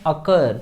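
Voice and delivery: "occur" said as uh-KUR; pronunciation demo of occur. Shown as a demonstration. Teacher shows learners how to read the word, pronunciation demo. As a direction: say "occur" clearly as a model, uh-KUR. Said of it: "इसको पढ़ते हैं".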